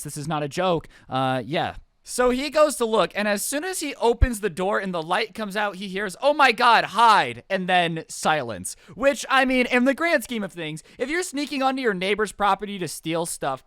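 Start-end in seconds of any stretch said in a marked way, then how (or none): 6.2-7.4 louder, mild mock scream; retold scream. Thief startled by the opening door, mild mock scream. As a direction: cry it out, only half screamed. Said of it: "but maybe screaming".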